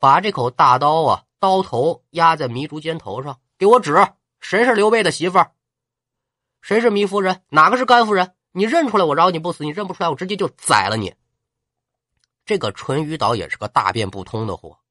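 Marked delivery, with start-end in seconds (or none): 3.6-11.1 threatening. Acted. General threatens captive with blade.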